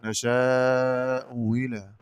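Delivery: نشاء إلى with long aa, second hamza softened between hamza and glide; slow recital of نشاء إلى, second hamza half-sounded; eased second hamza. Shown as a demonstration. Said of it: "قرأ بتسهيل الهمزة الثانية بين بين".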